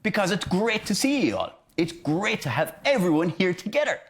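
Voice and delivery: high, eager delivery; acted excitement. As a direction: show you're thrilled to see everyone. I understand that I'm excited.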